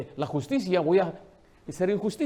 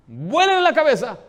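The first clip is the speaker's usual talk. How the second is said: furious royal shout, much higher and louder; angry king; 7 semitones higher, 8 dB louder than usual. Acted. King ordering an execution in fury. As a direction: roar the order like an enraged king.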